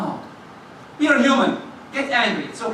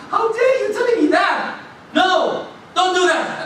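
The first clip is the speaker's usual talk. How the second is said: acted outrage in a much higher voice; indignant protest; 9 semitones higher than usual. Companions defending the Prophet from a man, indignant. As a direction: cry out in shocked protest.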